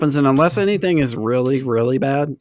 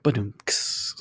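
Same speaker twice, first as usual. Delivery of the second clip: rimshot sound; 4 semitones lower, 6 dB quieter than usual. Retold or imitated. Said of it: "we don't have to be like".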